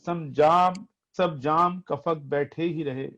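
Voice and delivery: poetry recitation. Acted. Reciting ghazal verses, repeated lines.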